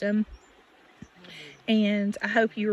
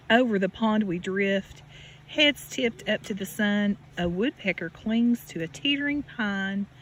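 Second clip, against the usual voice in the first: gentle storybook read with a lift on each refrain; reading to children. Acted. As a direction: read it like a bedtime picture book for a little one. Reading picture book to child.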